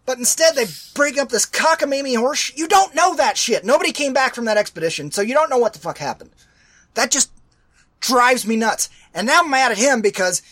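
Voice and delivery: genuinely worked-up complaining; real anger. Real, not acted. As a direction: vent real frustration at the movie. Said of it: "I'm so pissed off".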